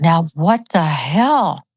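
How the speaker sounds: slow, drawn-out disbelief; retold bafflement. Speaker recalling her thought at Spirit's message, slow bafflement. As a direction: draw out "what the hell" in bafflement.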